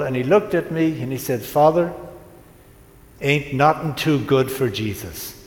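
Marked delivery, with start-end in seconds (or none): 1.4-5.3 light Southern US drawl, retold; gentle imitation of a Southern drawl. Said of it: "it was in a southern drawl".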